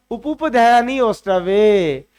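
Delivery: उपुपध्यानी ओष्ठवे drawn out slowly, syllable by syllable; slow recitation. Shown as a demonstration. Teacher reciting the rule to the students, slow and deliberate. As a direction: lay the rule out slowly so students can follow. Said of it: "हमारा सूत्र क्या है".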